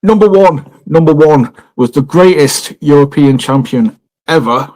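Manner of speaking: slow, emphatic list-reading announcement; mock announcer. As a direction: announce the champion with mock grandeur.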